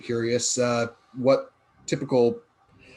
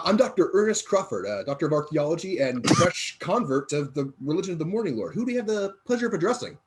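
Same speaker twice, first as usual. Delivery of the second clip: higher, dignified doctor introducing himself; a proper archaeologist's introduction; formal scholar; 5 semitones higher than usual. Acted. Player voices Doctor Crawford.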